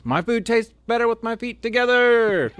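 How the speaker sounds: high, far-off mock yell. Sergeant ordering the recruit to yell the slogan, high mock yell. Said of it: "yell at the top of your lungs".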